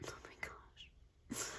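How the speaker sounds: slow, barely audible whisper; hushed, drawn-out amazement; awed whisper. Real, not acted. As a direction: whisper it, overcome by cuteness. Awed at cute card picture.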